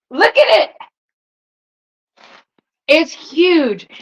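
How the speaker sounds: amazed. Real, not acted. Showing off the massive box.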